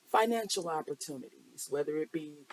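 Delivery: holding back hiccups mid-sentence; suppressing hiccups. Real, not acted. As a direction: hiccup caught in the throat. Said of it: "I have the hiccups".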